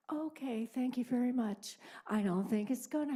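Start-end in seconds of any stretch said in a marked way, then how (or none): 0.1-1.8 dry sarcastic thanks, partly whispered. Real, not acted. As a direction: thank them with biting sarcasm. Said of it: "overboard sarcastic".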